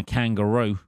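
a hint of Australian on "kangaroo"; slight Australian accent. Real, not acted. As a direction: slip faintly into Australian for "kangaroo". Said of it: "said kangaroo then in an Australian accent almost".

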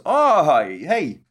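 wife gushing over new remote batteries, mock bright; mock chirpy wife. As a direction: play the delighted wife, rattling it off fast. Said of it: "Wife turns the T V on and goes".

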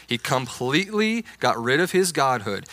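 "completely" stretched out with heavy emphasis; stress on completely. Retold or imitated. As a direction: imitate believers leaning hard on "completely". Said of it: "stress the word completely as well".

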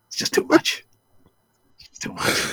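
defeated whisper; exhausted whisper. Retold or imitated. Co-host slumped after the rant, defeated whisper. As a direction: mutter it, beaten down. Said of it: "he's sitting there with his head down".

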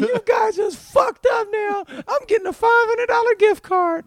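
high, loud, slow ranting scream. Retold or imitated. Shoplifter on the floor screams at the guards, high and loud. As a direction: shriek the threats at them. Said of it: "he's screaming this in sporting goods".

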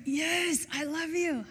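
high-pitched, exasperated reassurance; mock annoyed. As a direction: give in with exasperated insistence. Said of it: "he kinda gets annoyed".

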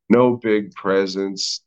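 put-on slow, slurred Spanish accent; drunk Spaniard accent. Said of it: "like a fucking drunk Spaniard".

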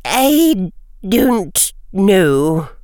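very slow, halting admission; hesitant. Acted. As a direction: let it come out reluctantly. McGonagall finally answers.

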